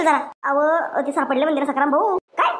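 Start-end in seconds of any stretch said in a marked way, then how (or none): 2.2-2.5 sudden much higher shocked cry; wife hearing her husband was found, shocked; shocked what. Acted. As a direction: jump up in disbelief.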